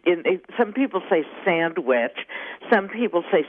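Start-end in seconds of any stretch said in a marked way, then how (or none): 1.5-2.2 "sandwich" said in full, SAND-witch; full pronunciation. Shown as a demonstration. Showing the host how some people say it, "sandwich" in full. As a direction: pronounce both the d and the w in "sandwich". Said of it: "the word sandwich differently".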